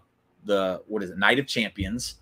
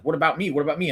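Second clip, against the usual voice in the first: imitated needy interjection, pitched up; mock pleading; 5 semitones higher, much faster than usual. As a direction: lightly mimic someone feeling left out. Finn begging to be interviewed.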